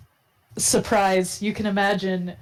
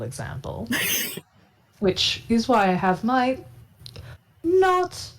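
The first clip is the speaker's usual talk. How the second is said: lightly voiced, self-mocking rogue; roguish character. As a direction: speak grandly, as a proud bad example.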